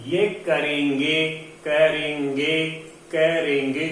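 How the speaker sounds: करेंगे drawn out slowly with nasal e; slow nasal demo. Shown as a demonstration. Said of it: "और शुद्ध क्या बोलेंगे?".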